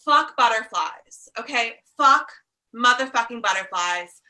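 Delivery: slow, loud swearing at butterflies; comic loud rant; mock outburst. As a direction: punch out the curse, drawn out.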